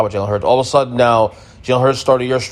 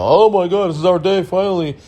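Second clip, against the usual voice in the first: imitating an overjoyed fan, pitched up; breathless excitement; 8 semitones higher than usual. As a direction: gush it like your team finally won. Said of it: "He was, like, Texans".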